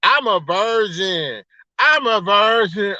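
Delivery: slow, drawn-out mock boast; mock bragging. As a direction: imitate someone proudly announcing it, stretching the words. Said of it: "And then he bragging".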